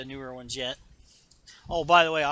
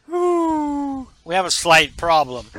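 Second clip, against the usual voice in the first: high, louder anxious officer; nervous officer; 8 semitones higher, 11 dB louder, slower than usual. Retold or imitated. Officer reporting bad news to Vader, high and anxious. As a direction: blurt it out nervously.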